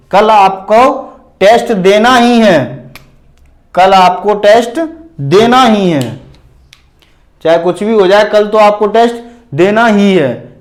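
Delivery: insist, leaning on "देना ही"; firm teacher's insistence on "ही है"; stress on ही. Shown as a demonstration. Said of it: "इस पे हम जोर दे के बोल रहे हैं".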